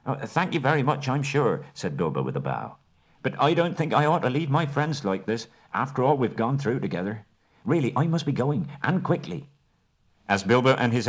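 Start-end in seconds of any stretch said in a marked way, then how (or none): 0.1-9.5 high, polite hobbit voice; bow out kindly but firmly. Acted. Bilbo declining the Elven King's offer, polite and firm.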